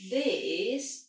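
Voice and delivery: THIS drawn out in a tone glide; second tone. Shown as a demonstration. Teacher introduces second tone, gliding THIS. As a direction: stretch THIS as a tone example. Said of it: "Second tone is".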